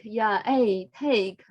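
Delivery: "take" said as one syllable with a breathy k and no ending; take not taker. Shown as a demonstration. Teacher correcting a student's "take" in class, ending on the k. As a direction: say "take" clean, with no "-er" after it. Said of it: "not taker".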